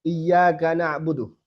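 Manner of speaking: Iyyaka na'budu with a lightly flowing ain; model recitation. Shown as a demonstration. Teacher reciting for students to repeat. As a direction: recite na'budu letting ain flow a little. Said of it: "Coba pada nih baca".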